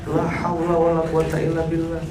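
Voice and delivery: ordinary talk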